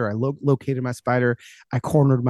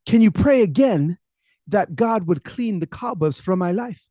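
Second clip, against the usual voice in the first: higher, slowing imitated plea; lightly voiced imploring old churchgoer; tearful old lady pleading; 5 semitones higher than usual. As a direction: beg the pastor, drawing it out. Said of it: "and she's still crying".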